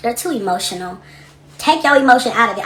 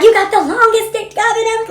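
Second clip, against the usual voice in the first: a touch of a mocking higher voice; quoting her old read; 12 semitones higher, 6 dB louder than usual. Host replaying her old read for viewers, lightly mocking. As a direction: lightly replay the insult, half laughing.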